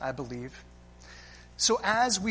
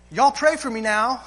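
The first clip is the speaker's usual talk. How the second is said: mock child's Southern cry, louder; Southern accent; 3 semitones higher, 6 dB louder than usual. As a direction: voice the kid calling out in a Southern accent. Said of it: "crying out in a charming Southern accent".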